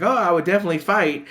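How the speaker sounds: quick, high mock bravado; sarcastic. Servant to nurse, sarcastically claiming he'd fight. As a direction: fake eagerness, clearly insincere. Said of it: "we see he's being very sarcastic".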